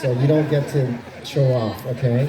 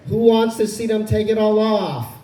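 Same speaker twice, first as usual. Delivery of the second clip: hyping the crowd; 6 semitones higher than usual. Real, not acted.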